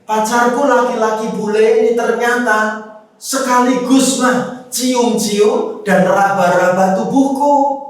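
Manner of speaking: daughter retelling. Retold or imitated. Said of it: "Gini, Ma".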